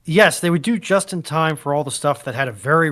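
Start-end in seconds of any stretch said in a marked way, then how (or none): none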